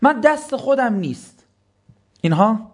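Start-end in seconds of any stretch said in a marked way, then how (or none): 0.0-1.5 mocking excuse.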